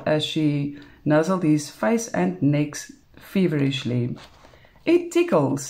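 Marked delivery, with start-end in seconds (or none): 4.8-5.7 high, breathless mock protest; weak objection. A narrator's reading. Man protests weakly as she nuzzles him, high. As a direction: squeal it out weakly. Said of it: "he objects weakly".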